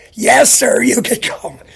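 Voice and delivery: loud clerk calling the next person. Retold or imitated. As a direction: call him over across the room. Clerk calls him forward.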